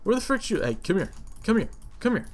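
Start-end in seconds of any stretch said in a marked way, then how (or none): 0.0-0.6 high, loud protest; outraged yell. Real, not acted. Yelling at the thief stealing his prime meat, outraged. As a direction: yell at the thief to give it back.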